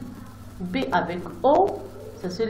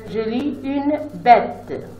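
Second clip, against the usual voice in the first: une bête read slowly and clearly; 3 semitones higher, 4 dB louder, slower than usual. Shown as a demonstration. Teacher reading the finished word slowly to pupils. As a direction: say it slowly for the class. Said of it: "et quand je lis".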